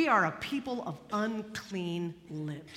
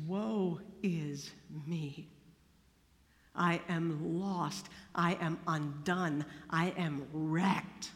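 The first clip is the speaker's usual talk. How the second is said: terrified; 7 semitones lower, slower than usual. Acted. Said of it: "and he's terrified".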